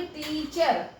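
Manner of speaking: टीचर with टी stretched before चर; syllable by syllable. Shown as a demonstration. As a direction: draw out the टी, then add चर in टीचर. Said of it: "ये हो गया हमारे दो sound". (टीचर में टी खींचकर, फिर चर)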